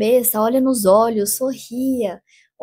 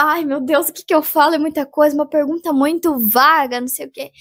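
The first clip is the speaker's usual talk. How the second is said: mock panic; 5 semitones higher than usual. Imitating a panicking interviewee.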